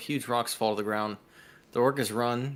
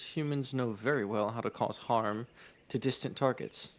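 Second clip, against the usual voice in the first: measured storyteller reading; game master's descriptive read; game story narration; 5 dB louder than usual. A narrator's reading. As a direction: narrate the scene evenly to the players. Reads the game's scene aloud.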